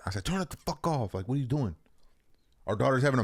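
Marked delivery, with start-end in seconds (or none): 0.2-1.8 retold angry outburst, pitched much higher; pissed off. Father retelling how he scolded his partner over the crying, pissed off. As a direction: snap back in exasperation, voice jumping up. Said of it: "I got pissed".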